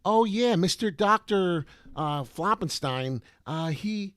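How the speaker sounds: high, loud, slow gushing fake testimonial; mock scammer voice. Scammers praising Doctor Floppenstein to viewers, high mocking voice. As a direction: ham up a gushing scam victim. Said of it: "they tell you".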